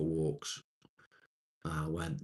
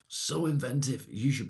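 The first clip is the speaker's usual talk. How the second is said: mock praise; 7 semitones higher than usual. Real, not acted.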